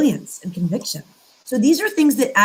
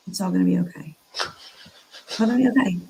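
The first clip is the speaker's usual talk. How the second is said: calming mantra; faster than usual. Shown as a demonstration. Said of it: "And I believe it".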